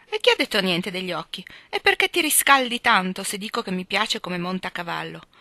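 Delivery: huffy younger sister protesting; a hint of petulant girl; voiced Amy. Narrator voicing Amy.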